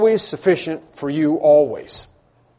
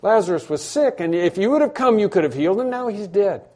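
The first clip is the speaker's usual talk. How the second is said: higher, louder pleading cry of grief; anguished plea; 4 semitones higher, 5 dB louder than usual. Retold or imitated. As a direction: cry out Where are you as if abandoned. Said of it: "they're going to say to Him".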